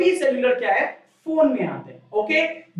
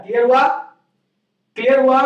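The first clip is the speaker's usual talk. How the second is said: 1 loud check; 2 semitones higher, 6 dB louder, much faster than usual. Real, not acted. Teacher checking class understood.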